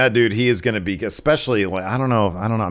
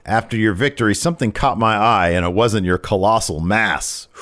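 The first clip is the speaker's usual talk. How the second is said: boastful wrestling promo, retold; lightly acted arrogant heel; Santos; 3 semitones higher than usual. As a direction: proclaim it with mock grandeur, slowing at the end. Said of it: "he says".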